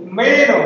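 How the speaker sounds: "meno" with "me" high; "meno" said with a high first syllable; stress on first syllable. Shown as a demonstration. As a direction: lift the "me" in "meno". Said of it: "me-nya tinggi".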